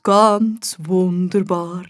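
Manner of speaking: a gnome sighing with pleasure; slow savouring gnome. A narrator's reading. The gnome admires the garden, slow contented gnome.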